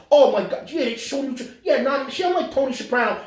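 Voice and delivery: high, fussy mimicry; hammed-up high-pitched complainer; mock Italian-American fan. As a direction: imitate a gushing, offended fan. Mimics outraged Italian-American fans.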